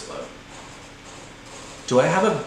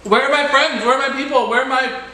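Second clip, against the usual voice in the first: much higher, louder, wailing for her friends; panicked squeal; 13 semitones higher, 6 dB louder than usual. Real, not acted. Gamer lost in Roblox, wailing for friends, panicked high squeal. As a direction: whine it out, lost and scared.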